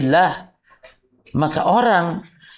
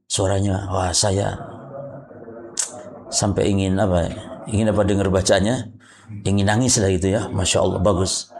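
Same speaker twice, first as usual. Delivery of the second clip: 1 admiring worshipper; 8 semitones lower, 4 dB quieter than usual. Retold or imitated. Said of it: "ada orang".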